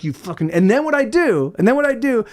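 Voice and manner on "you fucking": muttered curse. Retold or imitated. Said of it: "And I'd be like".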